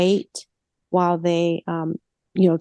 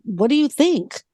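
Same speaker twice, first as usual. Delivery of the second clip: indignant retort; faster than usual. Retold or imitated. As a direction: voice rising in disbelief, half laughing at the absurdity. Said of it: "And I want to say".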